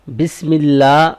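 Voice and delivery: بسم اللہ said briskly with a rising end; joined reading demo; quick joined demo. Shown as a demonstration. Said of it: "یہ جلدی سے ہم نے ملانا ہے".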